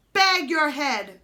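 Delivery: loud, slow outlaw snap; snapped. A narrator's reading. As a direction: bark him into silence. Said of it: "snapped Hold Your Nose Billy".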